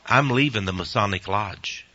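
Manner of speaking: mildly solemn, measured retelling; understated gravity, with a pause after the refusal. Retold or imitated. Convert retells his answer to the deacon, mildly solemn. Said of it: "very solemnly I said".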